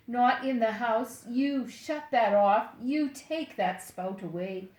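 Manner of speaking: loud stern order from mother; mother scolding. Retold or imitated. Mother ordering son to shut the spout off. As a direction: snap the orders like a cross mom. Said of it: "just what she would say".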